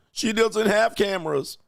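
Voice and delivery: mock ditzy voice, high and slow; hammed-up clueless drunk girl; mocking the drunk friend. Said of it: "And her dumb ass".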